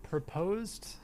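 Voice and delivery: soft unvoiced whisper. Real, not acted. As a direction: breathe the word. Whispered aside.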